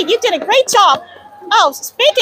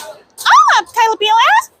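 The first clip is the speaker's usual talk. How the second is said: Minnie Mouse voice; 3 semitones higher than usual. Retold or imitated. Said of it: "And Minnie Mouse voice".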